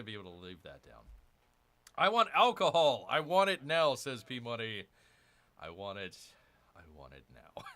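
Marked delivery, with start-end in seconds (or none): 2.0-3.9 mock demand. Reads P Money's chat. 5.6-7.6 muttered repeat. Retold or imitated. Repeats P Money's line.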